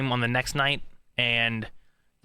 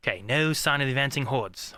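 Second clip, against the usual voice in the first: British accent rehearsal. Shown as a demonstration. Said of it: "Just try to, like".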